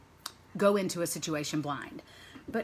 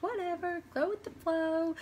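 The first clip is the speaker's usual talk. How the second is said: higher, slower carefree whatever; imitating laid-back youngest child; laid-back shrug; 12 semitones higher than usual. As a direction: toss it off like nothing matters. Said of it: "and very just like".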